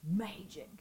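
breathy whispered echo. Real, not acted. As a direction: whisper it like a secret. Whispered echo of "It's magic.

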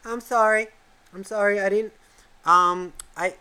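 put-on high, hesitant little-kid voice; imitated sorry kid. Kid apologises after being yelled at, high imitated child voice. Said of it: "hear a voice come on going".

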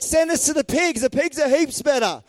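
hammed-up demon plea; pleading demons. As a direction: bargain eagerly with Jesus as the demons. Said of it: "they're like".

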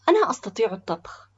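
loud call from a distance; voice from afar. A narrator's reading. Boy at the back volunteers to cook, calling from afar. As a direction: speak up so the whole group hears. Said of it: "أجاب صوت آت من بعيد".

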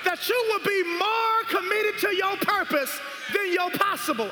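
fervent, driving sermon delivery; full-force preaching. Real, not acted. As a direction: preach it hard, stretching the key words.

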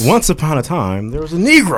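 mock fairy-tale opening. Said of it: "beginning of every K K K fairy tale".

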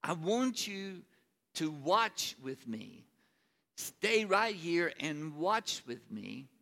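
slow, earnest plea to stay; pleading. Acted. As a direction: ask them gently but urgently to watch. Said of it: "he looked at them and he said".

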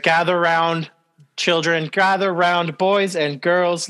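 gather-round storyteller. Pretend. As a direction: call the kids in like a storyteller. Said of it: "Let me paint you a picture with my words".

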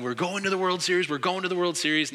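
half-volume imitation of a gleeful yell; retold celebratory yell. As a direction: imitate a fan chanting in triumph. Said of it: "he's yelling".

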